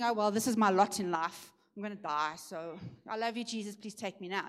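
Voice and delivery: fading, resigned giving up; mock resigned sigh.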